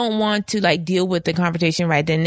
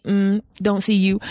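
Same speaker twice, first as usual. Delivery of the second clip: petty snub; slower than usual. Retold or imitated. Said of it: "I could be petty and then just be like".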